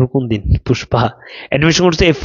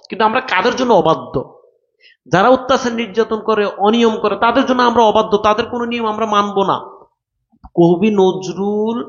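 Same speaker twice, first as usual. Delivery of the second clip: rousing explanation; 5 semitones higher than usual. Acted. Teacher rousing students to defiance.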